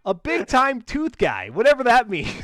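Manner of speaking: high, loosely giggly delivery; amused, voice lifting into a laugh; trying not to laugh. Real, not acted. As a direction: push the words out through real laughter. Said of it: "I can't even say it without laughing".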